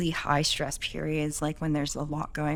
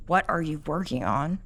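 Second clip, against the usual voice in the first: eye-rolling, suspicious "What are you working on?"; accusing question. Shown as a demonstration. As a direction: ask it with a frown, as if they're at fault. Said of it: "She's rolling her eyes".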